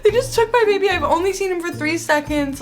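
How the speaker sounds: put-on heartbroken that the baby was taken away; distressed wail. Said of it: "'cause I was just like".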